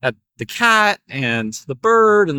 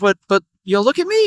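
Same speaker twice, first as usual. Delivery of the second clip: a bird crying out to be noticed; attention-seeking bird; 3 semitones higher, faster than usual. Acted. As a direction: pitch jumps way up on look at me. Bird demands the farmer's attention.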